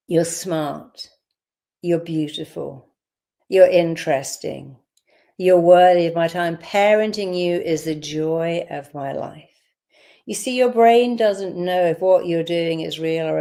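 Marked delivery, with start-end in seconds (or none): 0.1-9.5 tender affirmations. Shown as a demonstration. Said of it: "let's do it again".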